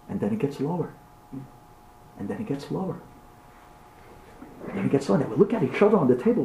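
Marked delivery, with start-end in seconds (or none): 0.1-5.2 soft, low, fading repetition; quiet, spaced-out suspense; getting lower. Acted. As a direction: hush it as the noise recedes.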